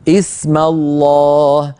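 اسم begun as ism with kasra, slowly; hamza with kasra. Shown as a demonstration. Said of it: "بهمزة مكسورة".

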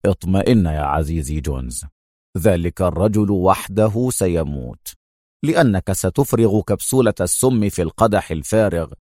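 understated calm villain; lightly voiced schemer. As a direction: lay out the plan with easy confidence. Tony reassures Jones after laughing.

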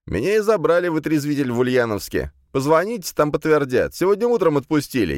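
wailed excuses to the police; high-pitched protesting. A narrator's reading. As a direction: plead your innocence in a high voice. Suspect wails excuses to police.

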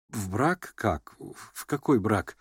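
dazed suitor mumbling; stunned mumble. A narrator's reading. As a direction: stammer in confusion. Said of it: "бормотал ошеломлённый Гаврила Ардалионович".

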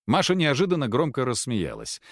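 plain reading voice

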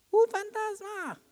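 high, slow terrified cry of a ghost; frightened cry. Acted. Disciples shrieking at a ghost in the storm, terrified.

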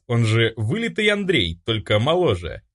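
usual speaking voice

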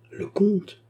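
sudden high-pitched astonishment; startled exclamation. A narrator's reading. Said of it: "exclama Sir Williams en tressaillant".

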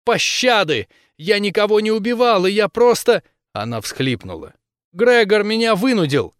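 high, loud, desperate pleading; panicked girl begging through tears; pleading tearfully. Acted. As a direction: beg for mercy near tears. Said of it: "расплакалась".

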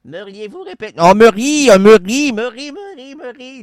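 lightly hammed trance medium; seance medium. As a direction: call the spirit, half in trance. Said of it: "on va rentrer en transe".

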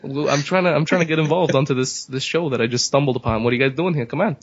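lightly voiced New York guy, a hint of the accent. New Yorker barging into the show, a light New York accent. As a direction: play a brash New Yorker, only a touch of accent. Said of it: "the Jewish guy from New York".

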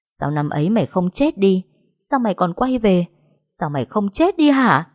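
venomous hiss, rising in fury; hissed through teeth. Acted. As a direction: grit it out through clenched teeth. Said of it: "rít qua kẽ răng". (rít qua kẽ răng, giận dữ)

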